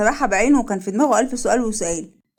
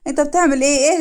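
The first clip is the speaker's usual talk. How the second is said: higher, urgent question; mildly panicked, pitched up; acted alarm; 4 semitones higher, 4 dB louder than usual. Woman stopping man hurting his head, alarmed.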